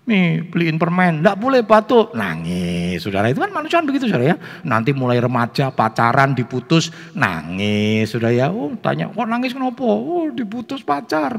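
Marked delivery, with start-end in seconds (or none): 0.1-2.2 higher, louder playful imitation; nagging child exchange. Child begs parent for sweets and is refused, mock squabble. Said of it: "senjatanya anak itu kan nangis". 9.1-11.4 mock crying. Teenager dumped by a sweetheart explains tears, mock wailing.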